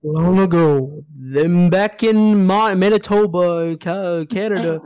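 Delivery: slow, loud tall-tale telling; old storyteller voice. Retold or imitated. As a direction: drawl it out like an ancient legend. Mock epic tale telling.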